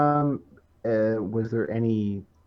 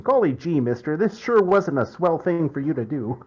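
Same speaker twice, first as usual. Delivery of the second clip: a hint of a golly-gee kid voice; lightly voiced wholesome old-timey kid; wholesome 1950s kid; 5 semitones higher, 5 dB louder than usual. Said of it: "it's like hearing".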